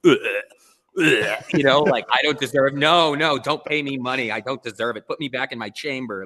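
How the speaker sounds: hammed-up unworthy artist begging not to be paid; mock self-loathing protest. Retelling his past self to a client, mock groaning refusal. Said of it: "that type of mindset".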